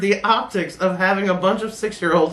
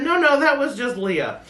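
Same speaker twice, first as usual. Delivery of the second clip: tattling friend; 7 semitones higher than usual. Retold or imitated. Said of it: "My friend said".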